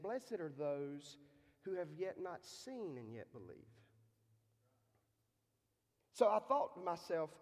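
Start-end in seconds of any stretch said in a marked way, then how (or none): 0.0-3.7 reverent quote. Retold or imitated. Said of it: "And Jesus said".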